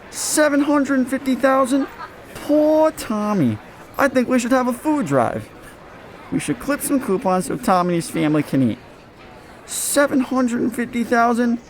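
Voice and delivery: mock sympathy. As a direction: pretend to pity the rich player. Mocks the player's big salary.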